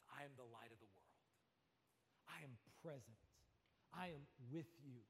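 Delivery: soft, reassuring voice of God; tender hush. Acted. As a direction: bring it close and gentle. Tender intimate restatement after climax.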